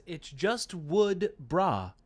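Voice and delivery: very slow drawled mock surfer line; a lightly voiced laid-back dude, very slow; imitating Wad. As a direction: stretch wood out lazily, lightly voiced. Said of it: "I imagine Wad saying it like that".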